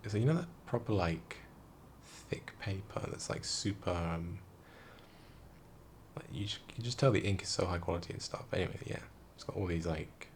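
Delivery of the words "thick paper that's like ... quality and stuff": hushed awe. Real, not acted. Marveling at fancy paper.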